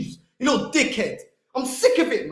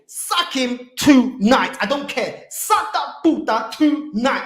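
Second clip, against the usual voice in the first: angry slow demand; 5 dB louder, slower than usual. Real, not acted. Furious fan rant at manager.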